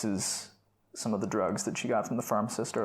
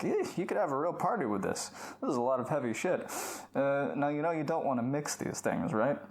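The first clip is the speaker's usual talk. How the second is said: higher-pitched mock-patronizing pharmacist; 3 semitones higher than usual. Pharmacist talking down to a customer picking up drugs, patronizing. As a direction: talk down with a knowing, needling lilt. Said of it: "being sort of patronizing to her".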